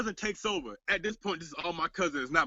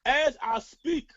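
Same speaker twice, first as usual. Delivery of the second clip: slow echo; 6 semitones higher, much slower than usual. Shown as a demonstration. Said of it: "My hairline's being pushed back as I speak".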